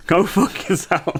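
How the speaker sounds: slow, giggling "go fuck yourself"; laughing insult. Retold or imitated. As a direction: crack up while swearing. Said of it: "Nelson Mandela".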